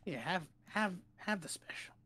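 soft, trailing whisper; secretive hush. Acted. Vendor passing over the special, secretive hush. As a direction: hand it over in a hushed whisper.

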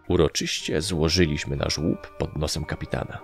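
usual speaking voice

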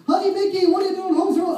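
high squeaky cartoon Minnie, caught out; shrill mouse voice, panicky. Minnie startled as Mickey walks in, squeaky high.

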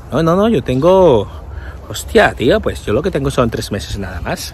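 hammed-up Spain accent, trailing low; mock Spain accent. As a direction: answer in a forced Spain accent. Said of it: "tienes que hablar aquí medio saciado". (acento de España forzado)

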